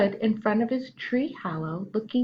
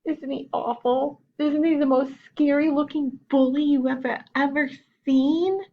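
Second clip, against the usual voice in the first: high, louder anxious question; frightened cub; 7 semitones higher, 3 dB louder than usual. Acted. Chester asking his mother about the badger, anxious and high. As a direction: ask it scared, pitched up.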